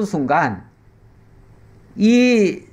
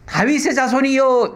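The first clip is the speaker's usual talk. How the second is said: mock outcry; 7 semitones higher than usual. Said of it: "그런 사람이".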